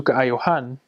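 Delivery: "kaayohan" with the "yo" syllable stressed. Shown as a demonstration. Teacher showing shifted emphasis, "kaayohan" stressed on the O. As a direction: move the weight onto the O in "kaayohan". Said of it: "the emphasis changes to the O".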